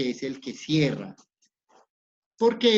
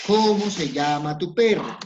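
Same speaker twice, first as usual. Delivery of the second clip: example question, louder; 3 semitones higher, 5 dB louder than usual. Shown as a demonstration. Teacher reads the example question aloud to class, louder. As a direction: read "¿Cómo se llama tu perro?" louder, falling on "perro". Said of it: "como por ejemplo".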